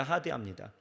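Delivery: 하대합니다 repeated low and soft; soft echo. Shown as a demonstration. Preacher repeats to the flock, 하대합니다 low and soft. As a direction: let 하대합니다 fall away quietly.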